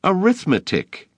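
very high, sudden outburst; boy blurting at his teacher; blurted out. A narrator's reading. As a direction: blurt the word out. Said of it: "he blurted out".

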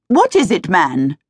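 sharp, impatient snap at a servant; snapping. Acted. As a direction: bite off the question. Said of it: "she snapped at the hovering footman".

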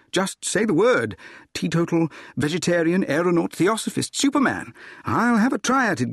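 animated suitor, pitch lifted through the list; keen, lightly hammed-up appeal; eager. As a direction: rattle off offers with rising eagerness. Suitor eagerly offers to become anything.

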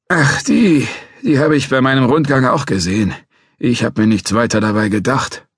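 put-on a cranky old guard threatening to call police; old watchman.

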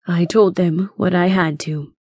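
understated regret; regretful. Acted. Doctor Evans answers his hurt grandson, mildly regretful. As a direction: explain with a touch of remorse. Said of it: "Doctor Evans said regretfully".

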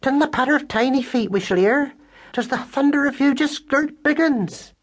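high squeaky West Country mouse voice, fretful; distracted country mouse. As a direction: lament like a flustered farm-girl mother. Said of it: "cried Madeline in a distracted voice".

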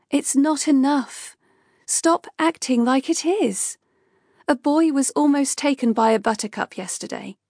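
Kay pushing back at Rupert, insistent and angry; heated argument. Acted. Kay continues arguing with Rupert.

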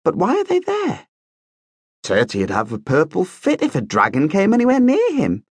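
high, eager, full of wonder; excited prince. A narrator's reading. Prince shows the young bat the dragon drawings, excited. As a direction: marvel at every page. Marcus marvels at the book.

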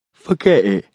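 mildly nasty dismissal; understated nasty tough. A narrator's reading. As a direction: cut her off nastily. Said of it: "he said nastily".

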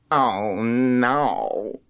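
slow, fearful, half-crying dread; a child dreading what he sees; frightened dread. Acted. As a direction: drag the words out in terror. Wally sees the hairy man again.

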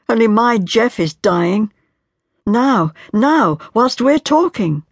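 a wife breaking down as she pleads; anguished young wife. Acted. Marian's long anguished outburst.

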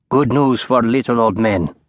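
a lightly voiced old man joking at himself; dry self-mocking aside; a hint of a wry elderly lecturer; wry old professor. A narrator's reading. Professor's self-deprecating joke.

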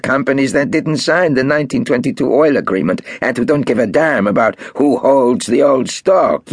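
Marcus, pressing. A narrator's reading. Marcus pressing Golda about rival companies, insistent. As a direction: push the offer hard.

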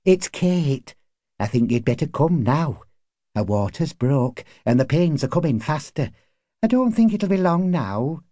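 lightly voiced woman with urgent news; anxious neighbour woman. A narrator's reading. Neighbour fetches husband for a birth, lightly urgent character voice. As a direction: press him gently, pitch lifting at the end.

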